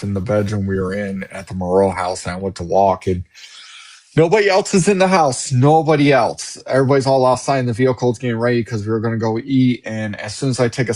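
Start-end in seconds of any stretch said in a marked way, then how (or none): 4.2-6.6 high stress on nobody, slowing down; emphatic. Real, not acted. Telling how he was alone in the house, emphatic. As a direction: lean hard on nobody.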